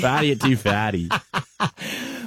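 slowly drawn out, with a rise on "farty"; slow drawn announcement. Shown as a demonstration. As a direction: stretch out "Farty at two farty". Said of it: "a new segment we like to call".

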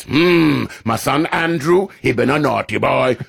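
put-on Queen with a Jamaican accent; the late Queen doing Jamaican patois. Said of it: "she's got a very thick Jamaican accent".

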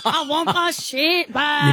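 high, slow mock-Irish farmer wail; Irish gone Scottish. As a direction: fake Irish accent slipping into Scottish. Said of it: "You're going Scottish".

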